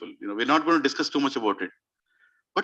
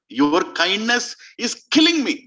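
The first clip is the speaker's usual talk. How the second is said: anguished; 4 semitones higher, 4 dB louder, slower than usual. Acted. Dashrath, distraught, speaks to Ram.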